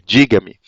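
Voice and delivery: 'diga-me' run together as a single word, DI-ga-me; as one word. Shown as a demonstration. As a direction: join 'diga-me' under one stress. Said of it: "quase como se fosse uma palavra só".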